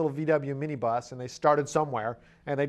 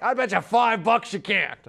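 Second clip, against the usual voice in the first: slow, doubtful dare in a put-on voice; skeptical bar bet; 4 dB louder than usual. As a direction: dare him, sure he'll lose. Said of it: "And the first guy's like".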